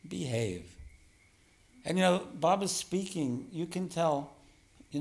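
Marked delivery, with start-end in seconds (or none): 0.1-0.8 low, soft, sweet coaxing; gently coax, voice dropped low and soft; sweet talk. Shown as a demonstration. Teacher demonstrating sweet words to his own mind, gently coaxing. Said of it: "So speak sweetly to your mind".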